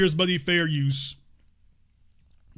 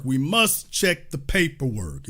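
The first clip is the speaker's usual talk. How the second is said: slow, lower, solemn mock official; mock solemn decree; 3 semitones lower, 3 dB quieter, slower than usual. Mocking critics with a slow, solemn official decree. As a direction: pronounce it like a grave rule. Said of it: "It's like".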